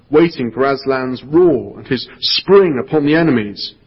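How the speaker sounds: lively, dramatic read-aloud storytelling; storybook reading voice with full character voices; story narration. A narrator's reading. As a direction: read it like a gripping tale to children. Reads the Narnia passage aloud.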